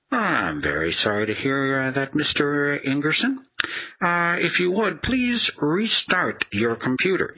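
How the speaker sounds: sing-song fake politeness, dragging out please; scripted support agent. Mimicking the agent mispronouncing his name, high and sing-song.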